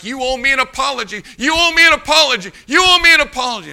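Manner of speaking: high, rising-force repeated demand; quickening, hammed-up irate insistence; imitated angry demand. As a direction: act out a man letting someone have it. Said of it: "He's letting me have it".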